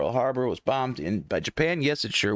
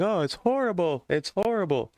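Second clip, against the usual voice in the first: higher, hammed-up panicky wail; mock panic; 7 semitones higher than usual. Host replaying his panic over a muted stream, mock-panicked wail. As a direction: play your own freak-out back for laughs. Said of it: "I'm sitting here freaking out like".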